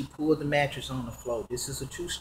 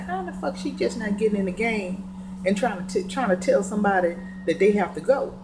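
higher-pitched mild indignation; retold upset girlfriend; 6 semitones higher than usual. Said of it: "my girls got very, very upset".

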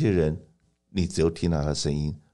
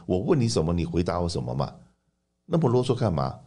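annoyed complaining customer; 2 semitones higher than usual. Retold or imitated. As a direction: grumble like a fed-up caller. Customer complaining about the paperwork.

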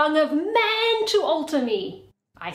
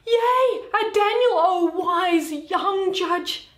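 gleeful praise; 7 semitones higher, slower than usual. Acted. Shylock hails the judge who favours him, gleefully. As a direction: exult over the young judge, then slow right down.

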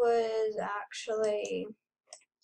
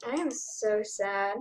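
crying; 3 semitones lower, 6 dB quieter, slower than usual. Real, not acted. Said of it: "crying right now".

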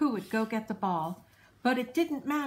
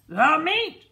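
louder, higher roar; 6 semitones higher, 9 dB louder than usual. A narrator's reading. Crew roaring for meat at dinner, loud roar. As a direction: roar it back together. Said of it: "we all roared".

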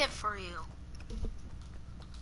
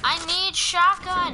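insistent; 4 semitones higher, 8 dB louder, slower than usual. Real, not acted. Teammate demanding a shotgun.

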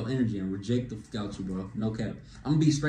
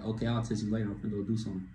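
soft casual exit line; 3 semitones lower, 6 dB quieter, faster than usual. Shown as a demonstration. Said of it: "be like".

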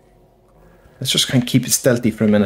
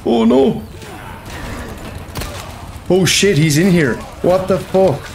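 being chased; 7 semitones higher, slower than usual. Real, not acted. Panicked game reaction.

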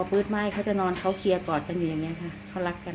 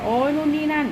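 mock fussing; 7 semitones higher, 3 dB louder than usual. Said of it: "ฝันโวยวายมาก โวยวายแบบว่า".

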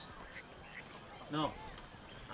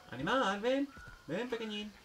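high, sing-out summons; coaxing animal call; 6 semitones higher than usual. Real, not acted. Player calls a little animal to come, high coaxing call. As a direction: call the little one over from afar.

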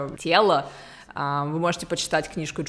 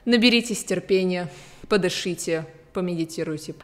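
English accent Russian. Real, not acted. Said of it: "мой русский не очень".

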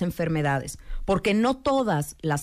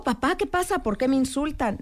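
startled son; 6 semitones higher than usual. Retold or imitated. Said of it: "El hijo se espantó".

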